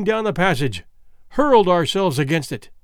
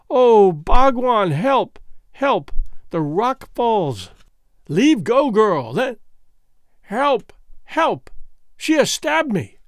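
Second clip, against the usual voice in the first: desperate cries for help; 4 semitones higher, slower than usual. Acted. Foulata crying to Bhagwan as she is stabbed, terrified. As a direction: scream for help as the rock falls. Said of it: "Cry upon cry comes ringing".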